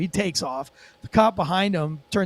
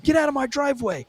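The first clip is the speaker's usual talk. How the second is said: raised-pitch mock protest; imitated indignant driver; 7 semitones higher than usual. Driver arguing with cop in driveway, mimicked indignation. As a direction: whine back in a high voice.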